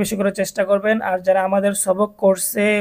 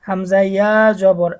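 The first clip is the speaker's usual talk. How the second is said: slow recitation drill; slower than usual. Shown as a demonstration. Teacher recites letters while students repeat along, measured drill. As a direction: recite each syllable clearly for students to repeat.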